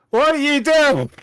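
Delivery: high, loud surprised in-character question. Acted. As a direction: ask it in a high put-on voice. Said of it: "and I go".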